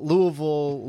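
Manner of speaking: "Louisville" slurred to LOO-uh-vul; "Louisville" with weak uh vowels, no ee; local Kentucky pronunciation. Shown as a demonstration. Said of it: "no, it's Louisville".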